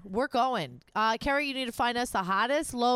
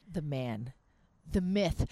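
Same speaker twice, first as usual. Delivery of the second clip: low, hushed reverent build-up; imitating a TV host introducing a musician, hushed awe; Stephen Colbert; 7 semitones lower, slower than usual. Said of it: "Stephen Colbert, he looks at him".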